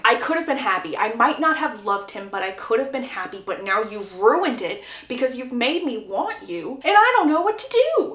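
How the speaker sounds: hammed-up anguished outburst; mock screaming. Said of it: "essentially screaming at Gregory".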